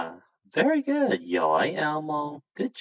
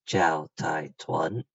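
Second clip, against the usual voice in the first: demo reply; 3 semitones lower than usual. Shown as a demonstration. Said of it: "you're gonna say".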